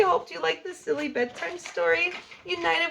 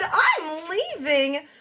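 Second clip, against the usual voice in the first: mock shout; 3 semitones higher, 4 dB louder, much slower than usual. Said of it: "a big monster shouted".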